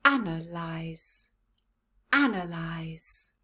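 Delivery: "Analyze" said slowly as AN-uh-lize; slow, careful model of "Analyze"; sounds put together. Shown as a demonstration. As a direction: say "Analyze" slowly, sounds joined, first syllable leading. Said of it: "Let's put the sounds together".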